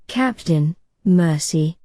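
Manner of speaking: usual speaking voice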